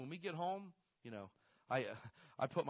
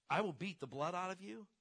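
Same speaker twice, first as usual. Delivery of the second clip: higher, louder mock threat of a mom; aggressive mom threat; 6 semitones higher, 5 dB louder than usual. Son imitating his mother's threat, a higher, louder mock yell. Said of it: "real crazy, aggressive mom".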